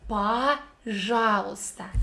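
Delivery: пожалуйста slowly, first "о" said as "а": "пажалуйста"; slow пожалуйста with reduced "a" start; unstressed o as a. Shown as a demonstration. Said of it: "it sounds like A".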